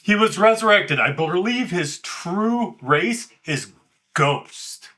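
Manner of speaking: nervous, trembling delivery; shaky voice. Acted. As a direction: voice shaking with nerves. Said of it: "Why is your voice shaking then?".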